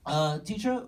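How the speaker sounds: put-on high-pitched student in a clumsy Asian accent; bad Asian accent. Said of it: "I'm just really bad at accents".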